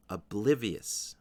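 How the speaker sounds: "Oblivious" slow, main stress on BLIV; second-syllable stress. Shown as a demonstration. Teacher repeating the word for learners, slow "Oblivious" stressed on BLIV. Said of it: "The stress is on the second syllable".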